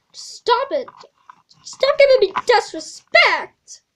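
loud, harsh whispered scold; mock scolding. Teacher scolding a sassy student, loud and harsh. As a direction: clamp down on the sass.

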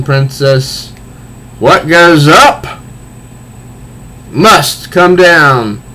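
hammed-up comic-book villain, slow taunt; villain Clayface. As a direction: taunt the princess, savouring each line. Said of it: "And he is".

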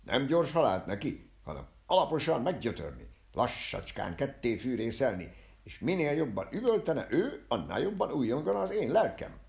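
loud, high, impassioned gloating; gloating rant. Acted. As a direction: build to a loud exultant peak. Barber gloats over torturing his enemy.

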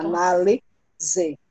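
"Análise" drawn out slowly, the s voiced as z: a-ná-li-ze; careful slow "Análise" with a z sound; slow demo pronunciation. Shown as a demonstration. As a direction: model the word slowly for children. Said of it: "mas se pronuncia Z".

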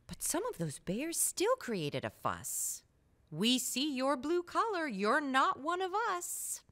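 lively, sing-song rhyme reading; reading to a child. A narrator's reading. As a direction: read the rhymes aloud to a little one. Reading picture book to child.

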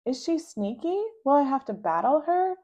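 eager questions. Acted. Rascal eagerly quizzing siblings.

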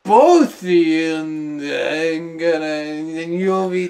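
put-on Scottish accent. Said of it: "Scottish hole".

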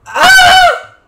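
high, loud shriek; startled scream. Real, not acted. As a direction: shriek in sudden alarm. Sudden cry in game.

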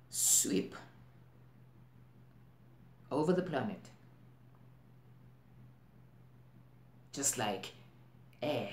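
halting delivery with long, weighty pauses; deliberate, worried stage monologue, phrase by phrase; dramatic monologue. Acted. Actor telling the audience what worries them, dramatic monologue.

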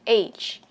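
"Age" with the closing j sound pushed out; careful teacher's "Age", ending fully sounded; final G released. Shown as a demonstration. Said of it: "chữ G ra cho mình ở cuối từ".

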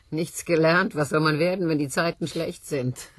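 hammed-up sigh over the times; mock lament. Woman mocking her husband's excuses, loud.

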